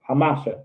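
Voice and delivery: Hamasha said ha-MAH-shuh; stress on middle syllable. Shown as a demonstration. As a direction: lean on the MA in Hamasha. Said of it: "Let's say Hamasha".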